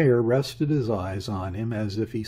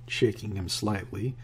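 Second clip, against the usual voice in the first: usual speaking voice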